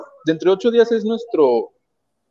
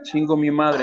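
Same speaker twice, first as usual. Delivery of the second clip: meme quote; 4 dB quieter than usual. Retold or imitated. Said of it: "te voy a hacer como el meme".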